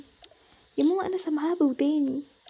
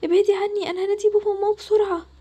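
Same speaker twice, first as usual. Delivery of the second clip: higher, louder frightened plea; frightened pleading; 5 semitones higher, 4 dB louder than usual. Acted. Scared sister warns she will call her parents, high and loud. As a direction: push her away in alarm. Farida backs away in fear.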